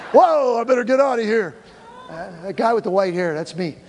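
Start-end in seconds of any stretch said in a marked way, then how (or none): 0.1-1.5 lightly voiced frightened devil; mock the devil fleeing, loud and alarmed; scared devil voice. The devil scared of Jeremiah, mock panic. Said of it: "He's like".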